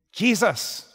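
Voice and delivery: high, loud shout; screaming out. Retold or imitated. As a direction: call the name out over a crowd. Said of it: "he screams out".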